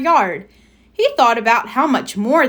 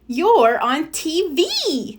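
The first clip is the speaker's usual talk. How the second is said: screamed; 8 semitones higher, much slower than usual. A narrator's reading. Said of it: "screamed D W".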